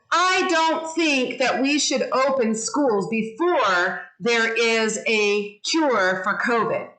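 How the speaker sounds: a claim read with some inflection; expressive inflection. Shown as a demonstration. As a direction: lift and drop across the claim, like a presenter. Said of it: "what was my voice doing".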